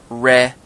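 Re'eh said as two distinct syllables, reh, eh; Re'eh broken up as REH, then EH; careful pronunciation. Shown as a demonstration. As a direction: sound out Re'eh slowly in two parts. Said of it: "how to pronounce these Torah portion names".

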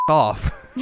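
hammed-up rude dismissal; mock snarl. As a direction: bark it off like a brat. Retelling Inuyasha's rude brush-off.

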